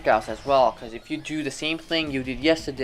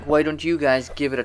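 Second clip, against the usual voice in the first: halting, stumbling restart; stammering; faster than usual. Real, not acted. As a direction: trip over the words and restart. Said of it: "I'm stammering a lot".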